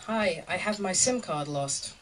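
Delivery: slow, careful beginner's sentence; halting translated German. Retold or imitated. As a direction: spell it out haltingly, like bad German. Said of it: "my German is really, really bad".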